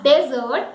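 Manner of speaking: "dessert" with first syllable DEZ, stressed; mispronounced dessert. Shown as a demonstration. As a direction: say "dessert" wrongly as DEZ-ert. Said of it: "it is not dessert".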